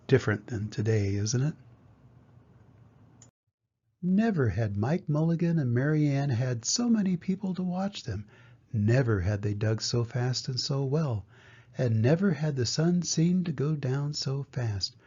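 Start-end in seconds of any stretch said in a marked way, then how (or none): 4.0-15.0 put-on lively, clearly told children's story; picture-book reading. A narrator's reading. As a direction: read to young children with expressive swings of tune. Reads a picture book aloud.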